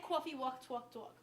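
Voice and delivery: "coffee walk, talk" with rounded aw; downstate New York vowels. Shown as a demonstration. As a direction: say "coffee" as caw-fee, "talk" as tawk. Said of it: "now, I say".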